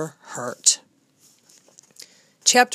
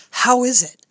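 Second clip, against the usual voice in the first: anxious; 6 semitones higher, 5 dB louder than usual. A narrator's reading. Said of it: "said Cook anxiously".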